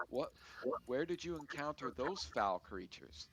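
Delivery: a farm wife jolted by the mention of troglodytes; taken aback. Acted. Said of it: "she gets surprised by this and taken aback".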